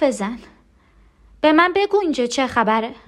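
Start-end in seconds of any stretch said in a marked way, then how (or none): 1.4-2.9 urgent, rising question; anxious demand. Acted. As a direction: press anxiously for an answer. Panicked demand to know. (پرسش مضطرب و مصرانه)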